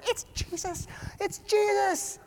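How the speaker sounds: high, thin mock cry, softened; excited like a kid. Peter swimming to Jesus on shore, excited. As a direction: squeal it with delight, without full volume. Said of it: "Peter gets so excited".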